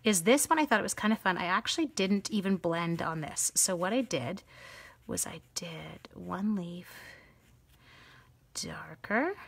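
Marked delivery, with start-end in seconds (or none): 5.1-9.4 whispered while holding breath. Real, not acted. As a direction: squeeze words out holding breath. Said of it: "Sorry, holding my breath".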